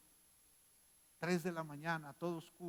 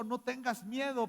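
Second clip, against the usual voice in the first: loud and higher, called over the storm noise; shouted quote; 8 semitones higher, 6 dB louder than usual. Acted. Preacher voicing Jesus shouting to the frightened disciples, loud call. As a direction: shout it across the waves. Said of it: "Y Jesús les gritó".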